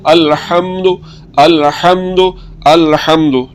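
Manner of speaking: अलहम्दु with a short clipped final u; short u, correct. Shown as a demonstration. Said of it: "बल्कि इसको कैसे पढ़ना है".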